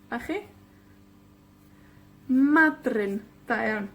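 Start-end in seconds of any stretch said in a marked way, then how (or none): 2.3-3.2 Madryn with MA stretched and stressed; MA-dryn, first syllable strong. Shown as a demonstration. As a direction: hit MA in Madryn, drop on dryn. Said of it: "la penúltima con la énfasis".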